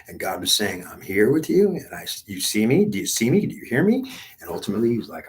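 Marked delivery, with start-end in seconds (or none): 0.9-4.1 high, loud, insistent calling out; urgent calling. Acted. God calls out loudly to the dying pilot on the skid. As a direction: reach him through the noise, pleading.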